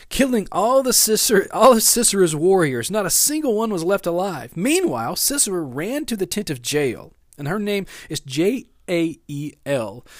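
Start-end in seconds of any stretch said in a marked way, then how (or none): 0.1-7.1 animated Bible story reading; Scripture reading. Acted. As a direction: read Scripture aloud with emphatic, lifted phrases.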